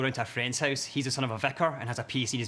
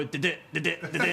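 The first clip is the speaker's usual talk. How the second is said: printer noise. Retold or imitated. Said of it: "The printer starts to go".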